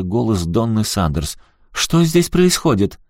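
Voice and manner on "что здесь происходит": very high, drawn-out question; slow, high-pitched startled query; alarmed demand. A narrator's reading. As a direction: call up in alarm. Mother calls from downstairs.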